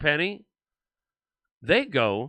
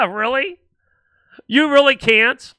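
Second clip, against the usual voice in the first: mock disbelief; 6 semitones higher, 5 dB louder than usual. Mock disbelief at people's claim.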